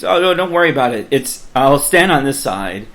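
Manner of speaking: hurried, insistent reassuring; breezy reassurance. Retold or imitated. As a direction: imitate someone waving away a fear. Artist brushes off the worry.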